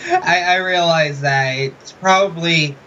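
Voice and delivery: talking muffled through a mask. Real, not acted. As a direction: voice muffled behind foam and fur. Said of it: "I probably sound like a muffled mess".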